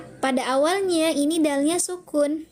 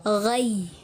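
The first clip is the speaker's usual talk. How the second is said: "Ghai" stressed and held, gliding down lower; nabar demo; 4 semitones lower than usual. Shown as a demonstration. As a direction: press on "Ghai" as one held syllable. ("Ghai" ditekan dengan nabar)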